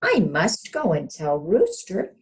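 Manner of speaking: rushing to spread the news; alarmed hen. Acted. Hen alarmed, wants to warn.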